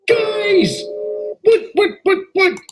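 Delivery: very high, bursting-in squeal; over-excited. Acted. Percy interrupting the lads with news, wildly excited. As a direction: burst in breathlessly eager to get attention. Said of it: "I'm just a little excited".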